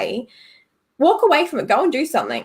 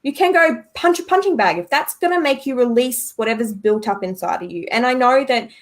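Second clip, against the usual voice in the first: usual speaking voice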